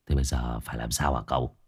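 low, soft thoughtful question; a worried, thoughtful servant; pensive. A narrator's reading. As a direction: ask it lost in thought. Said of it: "Hải Nghẹo trầm tư".

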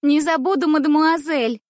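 high, loud mock-innocent promise. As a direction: sound sweetly innocent. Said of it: "самым невинным тоном".

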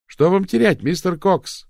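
taunting shout at Cox; shouting over noise. A narrator's reading. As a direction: cry it out over the din. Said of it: "прокричала Дафна".

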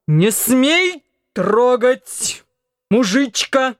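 put-on high, slow drunken yell; drunken shout. A narrator's reading. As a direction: snarl it drunkenly. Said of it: "закричал снова Антон".

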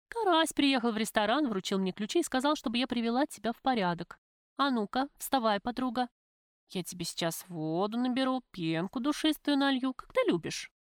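leicht gespielte, höhere Frauenstimme; fürsorglich, etwas forsch; resolute Freundin Lubka. Acted. Lubka voiced by narrator.

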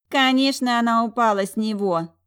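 высокий, громкий презрительный фырк; пренебрежительно, свысока; snorting scornfully. A narrator's reading. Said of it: "фыркнула Юола". (презрительно фыркая)

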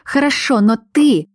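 high, sharp cry; shouting. Acted. Angry heroine shouts at the werewolf. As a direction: snap the word out loud. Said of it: "и прокричала".

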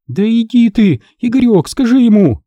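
put-on high, agitated girl's voice; shrill high young woman complaining; girl addict. A narrator's reading. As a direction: snap at him, then appeal to Igor. Addict girl pleading, angry.

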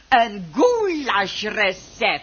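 traag en spottend uitgesproken; nadrukkelijk herhaald. Acted. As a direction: laat elk woord veelbetekenend vallen. (vrouw herhaalt het recept traag en beschuldigend)

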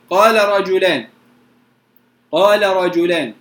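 قال رجلان said "qarrajulan", lam merged into a doubled ra. Shown as a demonstration. Teacher recites قال رجلان for students, lam merged into ra. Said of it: "تدغم".

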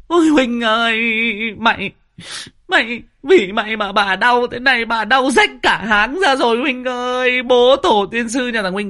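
daughter-in-law in labour cursing her husband Huynh, wailing; screaming curses in labour. Retold or imitated. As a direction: howl it at him as if the pain is his fault.

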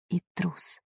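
plain reading voice

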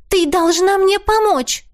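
высокий умоляющий голос девушки; выше, с напором просьбы; Теа умоляет. A narrator's reading. (высокий голос Теа, умоляет)

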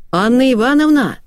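high hail from the yard; calling out. A narrator's reading. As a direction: call a neighbour from outside, voice lifted high. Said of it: "крикнули со двора". (высокий оклик со двора)

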